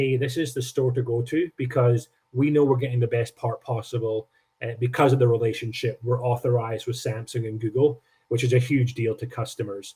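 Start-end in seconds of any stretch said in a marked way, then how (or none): none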